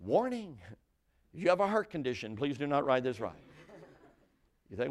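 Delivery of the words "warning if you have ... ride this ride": warning sign. Acted. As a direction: read it out like a posted warning. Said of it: "there comes that very first warning sign".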